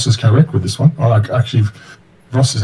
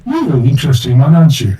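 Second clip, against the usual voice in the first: put-on drunken dwarf voice; 4 semitones higher, 3 dB louder than usual. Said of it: "in a drunken dwarven voice".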